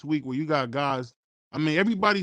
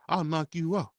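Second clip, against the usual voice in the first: understated, calm threat, slightly softened; quietly matter-of-fact mock threat; calm Lennox; 2 semitones higher, 3 dB quieter than usual. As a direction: imitate a boxer calmly promising a knockout. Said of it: "Lennox in a calm voice said".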